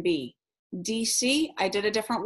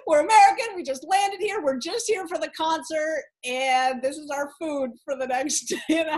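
higher, giggly pleading explanation; laughing explanation; 7 semitones higher than usual. Retold or imitated. Explaining groceries while laughing.

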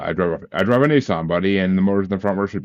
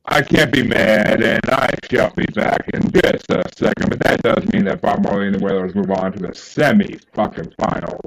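into a fan. Real, not acted. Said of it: "talking into a fan".

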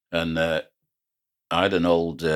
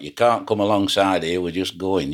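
retold shout; 3 semitones higher, 3 dB louder than usual. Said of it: "I lean out at the wheelhouse door and I shout".

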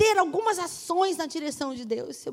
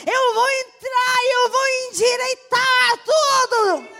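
full-force preaching; 7 semitones higher, 5 dB louder than usual. Acted. Preacher voicing God to the congregation, loud and high. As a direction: cry it out to the church like a preacher.

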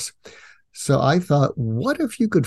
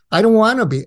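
high, emphatic imitated complaint; mock protest; 8 semitones higher, 4 dB louder, faster than usual. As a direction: imitate someone balking, pitched up. Retold woman's protest repeated.

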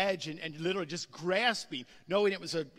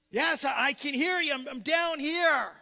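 calling up; 6 semitones higher, 6 dB louder than usual. Retold or imitated. Man answering from cliff.

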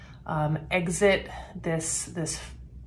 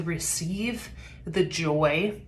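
words broken by gagging; dry heaving; much slower than usual. Real, not acted. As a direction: speak through a pregnancy gag. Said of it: "little pregnancy gagging".

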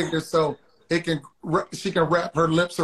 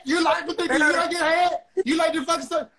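higher-pitched mock New York Hispanic accent; a rapper's accent; 9 semitones higher, faster than usual. Guest imitates the rapper's accent to explain his pick, mock New York Hispanic accent. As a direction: put on a high, exaggerated New York Latina accent. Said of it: "that good accent".

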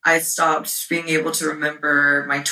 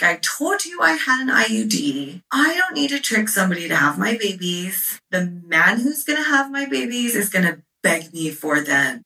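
higher-pitched indignant tirade, acted out; retold fury; 4 semitones higher than usual. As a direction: replay telling off a boyfriend, insistent. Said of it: "And I was just furious".

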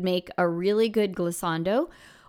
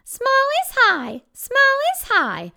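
very high, slow and squeaky; 5 dB louder than usual. Shown as a demonstration. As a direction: squeak it up high like a tiny thing. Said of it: "I'm telling them what they have".

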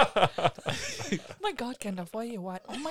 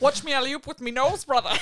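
hyped shout; 5 semitones higher, 7 dB louder than usual. Pretend. Joking about dunking with nose.

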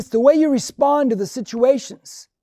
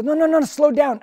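higher, quick cutting-in; retold interruption; 5 semitones higher, 3 dB louder than usual. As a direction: break in to halt someone talking too fast. Driver interrupts his fast explanation.

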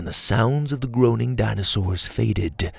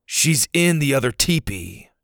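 curt, slightly raised retort; sharp; 4 semitones higher than usual. Acted. Ash answers Pa curtly about Dot. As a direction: snap the answer back at Pa. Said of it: "Ash said sharply".

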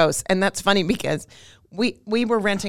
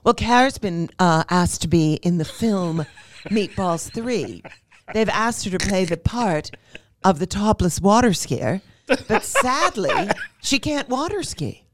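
mom voice; slower than usual. Retold or imitated. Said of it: "my mom was at the country club, and she said".

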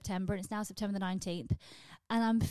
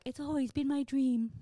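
fake earnest; 5 semitones higher than usual. Sarcastic answer to recruiter.

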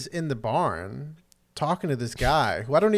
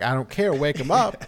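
stubborn insistence; 2 semitones higher, 6 dB louder than usual. Retold or imitated. Dodd's stubborn reply, retold.

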